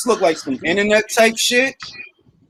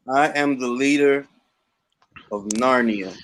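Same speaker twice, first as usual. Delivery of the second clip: lightly voiced grand overlord; mock grand ruler; 8 semitones lower than usual. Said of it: "I'm about to reply".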